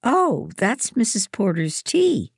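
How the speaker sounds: high, excited exclamation; crying out. A narrator's reading. Amy hears the kettle and cries out excitedly. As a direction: call it out with a leap in pitch. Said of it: "Amy cried".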